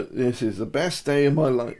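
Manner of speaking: mildly downcast delivery, closer to everyday pitch; slouched, downcast. Shown as a demonstration. Coach showing viewers a slumped posture that contradicts the words, mildly downcast. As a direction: say it slouched with head down, half-hearted.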